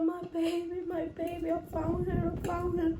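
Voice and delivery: retold tearful relief. Owner retelling finding her ferret, tearful relief. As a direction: relive the happy crying lightly. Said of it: "I was crying so badly".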